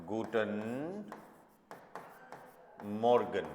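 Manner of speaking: "guten ... morgen" said word by word with a long pause between; slow German demo. Shown as a demonstration. Teacher to students learning German greetings, slow word-by-word demo. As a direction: lay out "guten" then "morgen" slowly for learners. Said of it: "आप बोलेंगे".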